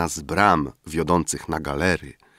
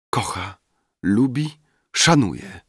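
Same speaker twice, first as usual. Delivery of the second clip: playful exclamation; 4 semitones higher than usual. A narrator's reading. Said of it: "wykrzyknęła".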